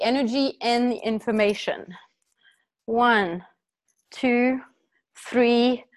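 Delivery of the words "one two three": loud count-in. Real, not acted. Counting in the group exercise.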